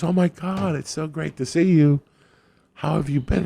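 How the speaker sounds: high-pitched gushing woman; delighted greeting. Retold or imitated. Acts out woman greeting him at door.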